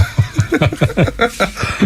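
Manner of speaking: high, breathy burst of laughter; real laugh. Real, not acted. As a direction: break into a laugh mid-conversation. Guest laughs after his own remark. (웃음을 터뜨리며)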